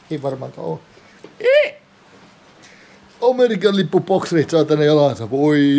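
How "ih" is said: very high short squeak; high squeal. Acted. Man undressing alone, squealing. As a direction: let out a sudden tiny squeal.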